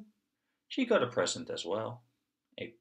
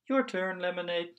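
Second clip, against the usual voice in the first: put-on high child voice; 8 semitones higher than usual. Piggy talks to her doll.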